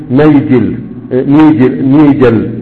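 نيجل with kasra on the ن; نيجل as nījal, not najal; taltala. Shown as a demonstration. Teacher demonstrating Bahra dialect, prefix with kasra. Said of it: "يكسرون أحرف المضارعة".

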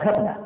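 "خطبة" with a short i: khitba; كسرة تحت الخاء. Shown as a demonstration. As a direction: kasra on the first letter of "خطبة", khitba. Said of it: "بالكسر". ("خطبة" بكسر الخاء)

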